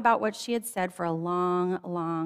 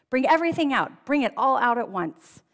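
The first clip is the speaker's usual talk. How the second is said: joyful command; 5 semitones higher, 5 dB louder than usual. A narrator's reading. King joyfully orders everything out.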